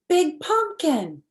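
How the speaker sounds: lightly voiced mummy. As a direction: marvel like a mummy. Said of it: "said the mummy".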